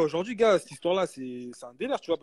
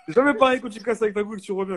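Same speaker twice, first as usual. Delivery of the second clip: laughing; 2 semitones higher, 4 dB louder than usual. Real, not acted. Laughing through the joke.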